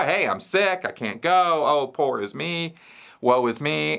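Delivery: high, whining little boy playing sick; whiny sick kid. Kid faking sickness to mom.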